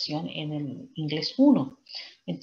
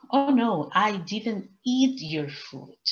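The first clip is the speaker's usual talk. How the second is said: higher, slow innocent denial in a dog voice; other dog answering; 3 semitones higher, 5 dB louder, much slower than usual. Acted. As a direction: protest innocence as the second dog. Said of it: "what is the answer of the other dog".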